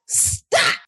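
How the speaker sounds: mock outburst, squeezed out without full voice; turned up. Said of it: "when you get turned up".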